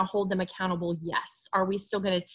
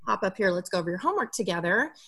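light tone; much faster than usual. Shown as a demonstration. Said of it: "in a light tone".

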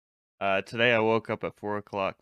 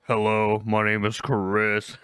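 sexy deep voice; 4 dB louder, slower than usual. Retold or imitated. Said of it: "I thought you were gonna come in like".

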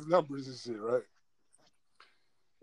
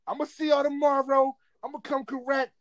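mock yell held back in volume; imitated yell; 6 semitones higher, 3 dB quieter than usual. Boy calling after the girls as they walk off, imitated yell. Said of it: "So I yell, I yell".

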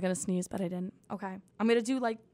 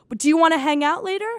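mock invitation; 4 semitones higher, 5 dB louder, faster than usual. Parodying a Tinder bio.

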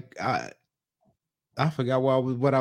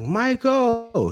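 calling out; 10 semitones higher than usual. Retold or imitated. Wife summoning husband upstairs, high calling-out voice. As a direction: call him like he's in another room.

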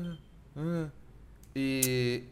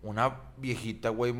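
tono compasivo; 4 semitones lower, 3 dB quieter, slower than usual. Retold or imitated.

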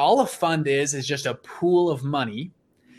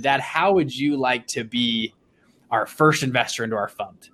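best pitch voice; 2 semitones lower than usual. Retold or imitated. Son asking dad to invest first, in his best pitch voice. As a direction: deliver a careful, slightly lowered investor pitch. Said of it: "in my best pitch voice possible".

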